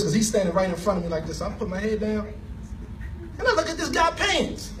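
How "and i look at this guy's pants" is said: can barely get the words out for laughing; laughing helplessly. Real, not acted. Telling how he collapsed on the stranger, laughing helplessly.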